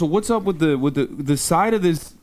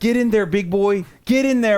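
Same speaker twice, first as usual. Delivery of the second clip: urging encouragement; 5 semitones higher than usual. Real, not acted. Urging frog to eat.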